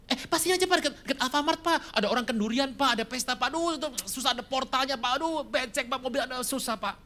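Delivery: high, rushed pleading excuses; mock anxious church member; nervous excuses. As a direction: talk him out of driving you home. Same member excusing again.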